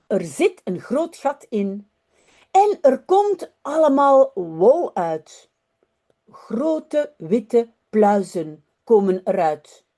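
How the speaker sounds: lively storybook read-aloud in Dutch; reading to children. Acted. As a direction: tell the story to young listeners.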